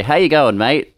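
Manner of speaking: quick, casual Aussie greeting; Australian greeting. Shown as a demonstration. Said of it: "but we usually say".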